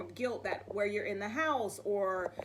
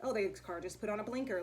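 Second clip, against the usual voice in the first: quiet self-talk; 7 dB quieter, faster than usual. Shown as a demonstration. Acting out noticing things while driving.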